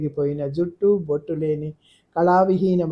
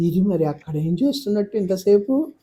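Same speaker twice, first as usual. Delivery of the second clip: alarmed; 4 semitones higher than usual. Acted. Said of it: "కంగారుగా అడిగింది".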